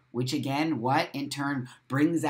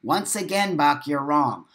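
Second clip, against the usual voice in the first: mock scolding; 4 dB louder than usual. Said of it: "you're shaming me and you're scolding me as a child".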